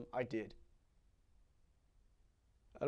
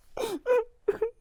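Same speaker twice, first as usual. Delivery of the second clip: high choked sob; a cry catching in the throat; 5 dB louder than usual. Acted. Boy crying for his mother, a choked sob.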